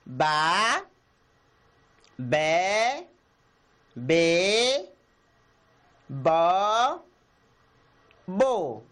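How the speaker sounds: soletrar as sílabas Ba, be, bo devagar e claro; sílabas soletradas. Shown as a demonstration. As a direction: cada sílaba separada com pausa. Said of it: "Vamos começar". (sílabas lidas em voz alta para as crianças)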